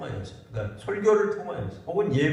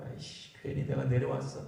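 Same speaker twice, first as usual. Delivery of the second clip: softer, mildly put-out grumble under imagined tears; mock resentful grumble; 7 dB quieter than usual. Preacher imagining Jesus regretting coming down, mock resentful grumble. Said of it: "막 원망이 나오고".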